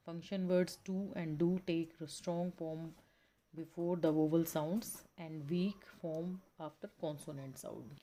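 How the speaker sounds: very slow, careful read-aloud of the textbook. Acted. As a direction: read the passage out slowly for the class. Reads textbook passage slowly.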